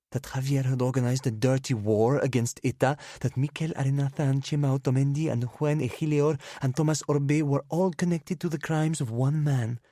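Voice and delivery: put-on loud, high, furious drunken rant; angry rant. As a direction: hurl the names at him. Drunk woman rants accusations.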